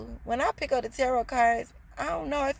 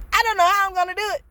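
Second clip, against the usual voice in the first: laughing; 8 semitones higher, 5 dB louder, faster than usual. Real, not acted. Still laughing after giggle fit.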